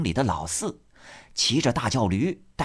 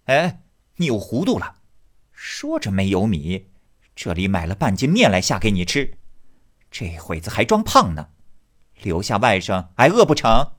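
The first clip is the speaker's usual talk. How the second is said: scolding wife; 5 dB louder than usual. Acted. Wife scolds husband over the noodles.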